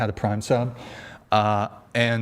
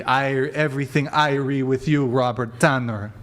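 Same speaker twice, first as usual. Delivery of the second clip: mock Jamaican. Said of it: "like I'm Jamaican".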